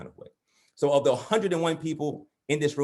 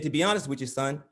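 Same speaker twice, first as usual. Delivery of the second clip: acted dad, climbing to a high-pitched punchline; straight-faced dad; 8 semitones higher than usual. Dad answering his beaten son, straight-faced then high-pitched. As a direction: start matter-of-fact, then pitch way up in earnest. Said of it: "with a straight face".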